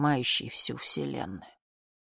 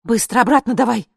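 loud, higher barked order; commanding; 8 semitones higher, 12 dB louder than usual. Acted. Woman to the dictator, loud command. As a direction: order him back, sharp and loud. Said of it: "скомандовала я".

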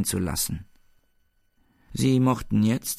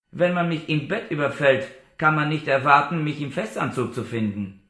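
K. shouting; 5 semitones higher than usual. A narrator's reading. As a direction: shout the protest, then let it drop. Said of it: "wenn K. schrie". (K. protestiert laut und hoch, zum Ende abfallend)

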